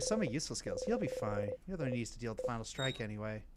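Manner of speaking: low, soft, curt brush-off; dismissive character voice. Acted. Game character sending the friend away, low and cold. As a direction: push the friend away, coldly.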